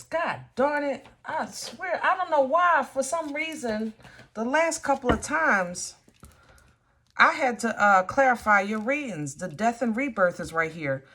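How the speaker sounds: venting real frustration at the cards; exasperated. Real, not acted. Tarot reader venting frustration at the reading, exasperated. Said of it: "I think I'm mad".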